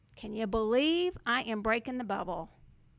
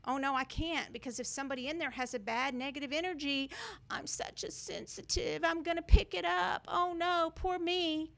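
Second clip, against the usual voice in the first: whiny mock sensitive; 4 semitones higher than usual. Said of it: "So you have to put a wall".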